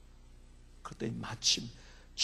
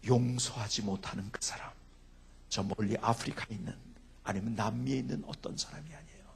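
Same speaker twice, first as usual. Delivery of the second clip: normal talking voice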